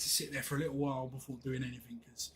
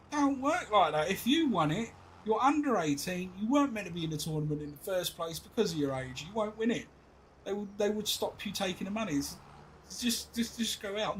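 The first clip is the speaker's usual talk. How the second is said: exasperated lecture; 5 semitones higher, 4 dB louder than usual. Retold or imitated. Dad lecturing son.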